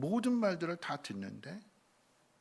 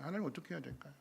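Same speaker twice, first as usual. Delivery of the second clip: softer, hushed question to God; quiet prayer; 7 dB quieter, much faster than usual. Acted. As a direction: ask God gently. Moses quietly asking God. (하나님께 조용히 여쭙는 모세)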